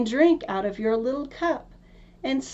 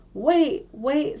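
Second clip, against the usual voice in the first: high calls after the running princess; frog calling out; 7 semitones higher, 4 dB louder than usual. Acted. Frog calling after the princess, raised and pleading. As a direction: cry out for her to wait. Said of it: "to scream his croak, croak after her as loudly as he could".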